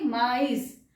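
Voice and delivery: माइस as ma-EES, two syllables; both vowels sounded. Shown as a demonstration. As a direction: keep A and I apart in माइस. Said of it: "दोनों pronounce होंगे".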